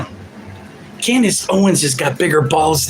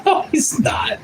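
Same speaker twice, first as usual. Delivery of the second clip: squeaky high-pitched voice, much higher; a little mocking falsetto no; squeaky falsetto reply; high squeaky retort; 11 semitones higher, 3 dB quieter than usual. Reply to golden god claim.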